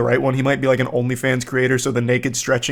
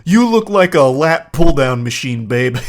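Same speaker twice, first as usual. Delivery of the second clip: louder hammed-up gym bro flirting; mock gym bro; 5 dB louder than usual. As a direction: pump it up like a cheesy gym flirt. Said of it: "Like, yeah".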